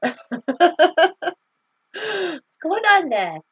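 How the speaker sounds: high-pitched, amateur Yorkshire imitation; attempted Yorkshire accent. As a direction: have a playful go at a Yorkshire girl's accent. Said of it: "I don't know how to do her accent".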